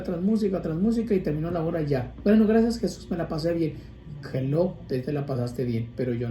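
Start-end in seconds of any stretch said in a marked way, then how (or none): 2.2-3.7 mock complacent worshipper.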